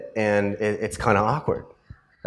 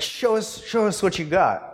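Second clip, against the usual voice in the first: higher, eager mock pleading for a show; pushy fan demand; 7 semitones higher than usual. Crowd on the ship begging the actor to put on a show, higher mock pleading. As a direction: egg him on like an impatient crowd. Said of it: "approaching him and saying".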